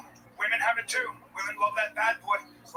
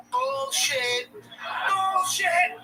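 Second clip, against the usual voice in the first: shouted bullshit; 10 semitones higher, much slower than usual. Acted. Comic calling out women's excuses, shouting. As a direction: bark it like you can't believe it.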